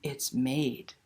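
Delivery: gentle read-aloud ending; storyteller voice for kids; story narration. A narrator's reading. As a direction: wrap the tale up warmly. Narration resumes.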